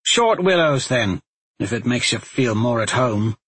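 sour. Acted. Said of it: "Talmadge replied sourly".

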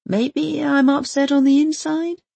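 hopeful question. A narrator's reading. Dad pleading.

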